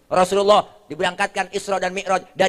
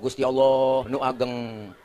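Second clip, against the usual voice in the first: imam orang Sunda; 4 semitones lower, slower than usual. Acted. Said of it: "Teman dari Sunda".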